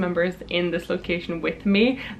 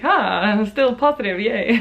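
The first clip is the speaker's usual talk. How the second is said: forced positivity; 2 semitones higher than usual. Retold or imitated. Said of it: "trying to be very, like".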